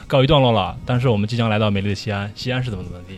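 soft airline PA demo; cabin announcement. Shown as a demonstration. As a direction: read it like a landing announcement. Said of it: "比如说".

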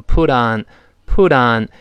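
joined-up put on; linked "put on". Shown as a demonstration. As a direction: put on run together as one word. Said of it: "Put和on连读到一块".

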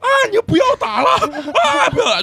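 mock hysterical girlfriend wailing, half laughing; hysterical pleading. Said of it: "就是歇斯底里的贼惨". (女朋友哭喊着劝架，模仿歇斯底里的尖叫)

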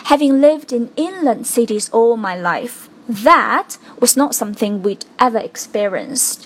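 "that" hit firmly; stress on that. Shown as a demonstration. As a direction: punch the word "that". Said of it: "把这个that做了一个重读的处理". (重读that)

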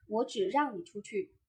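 你 given the main weight; single out 你, ease off after it; stress on 你. Shown as a demonstration. Voice coach showing only you may leave, stress on 你. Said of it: "如果把重音放在 “你".

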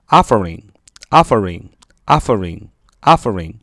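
"offering" stressed on OFF, falling after; stress on first syllable. Shown as a demonstration. Teacher modelling a new word, "offering" with first-syllable stress. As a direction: punch the OFF in "offering", repeated evenly. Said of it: "重音在啊那儿啊，第一个音啊那儿".

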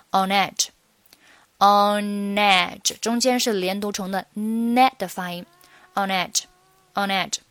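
"on edge" joined, the n running into "edge"; linked on edge. Shown as a demonstration. Teacher showing the easier "on edge" linking. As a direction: slide the n of "on" into "edge". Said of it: "仅仅是on和edge的连读".

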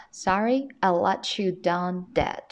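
"let you" said as one word, "le-chu"; linked reading. Shown as a demonstration. Teacher giving students the line to practise, words linked. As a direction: run "let" straight into "you" with a ch. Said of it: "去体会一下这一读法".

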